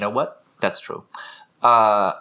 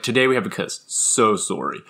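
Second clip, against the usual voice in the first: mannered teacher impression, lightly done; mimicking English teacher; 3 semitones lower than usual. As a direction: lightly imitate a teacher addressing class. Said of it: "I used to love to mimic him".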